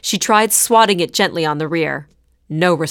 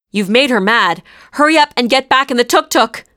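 higher, louder urgent command; urgent order; 5 semitones higher, 5 dB louder than usual. A narrator's reading. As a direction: hurry her back in with alarm. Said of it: "ordered Gurdeep".

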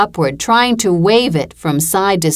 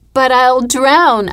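higher, louder, slow wail; a terrified child crying out to her mother; drawn-out frightened wail, pleading; 7 semitones higher, 3 dB louder, slower than usual. A narrator's reading. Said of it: "I wailed".

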